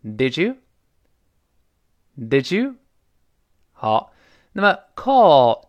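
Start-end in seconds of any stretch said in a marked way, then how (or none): 0.0-2.8 "Did you" blended into didjoo; didjoo, the d and y fused; linked Did you. Shown as a demonstration. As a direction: run "Did you" together with a j sound. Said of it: "再来一遍".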